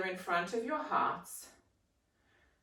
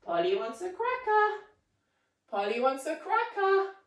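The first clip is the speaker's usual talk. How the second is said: higher squawky parrot call; 5 semitones higher than usual. Acted. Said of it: "let's hear it again".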